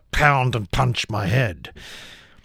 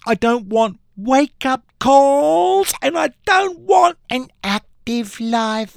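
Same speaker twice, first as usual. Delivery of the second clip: screamed rant; 4 semitones higher than usual. Acted. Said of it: "I stepped out and screamed".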